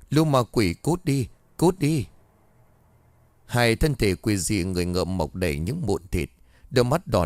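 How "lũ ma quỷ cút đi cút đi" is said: terrified cry. Acted. Nightmare, screaming at demons.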